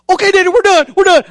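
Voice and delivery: put-on high, eager kid agreement; imitated relieved boy. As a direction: agree quickly like a child let off. Son eagerly agrees to quit.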